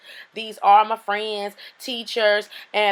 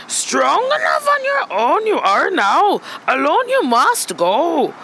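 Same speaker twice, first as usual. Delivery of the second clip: wise master voice; 4 semitones higher than usual. Acted. Master sending his pupil off alone, lightly put-on sage voice. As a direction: deliver it like a solemn sage in a light put-on accent. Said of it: "Whew, that accent was tiring".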